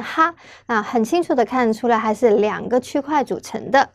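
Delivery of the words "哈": 哈 said as a clear, raised "ha"; pronunciation demo. Shown as a demonstration. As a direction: sound out 哈 for learners, pitched up. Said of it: "这个字念".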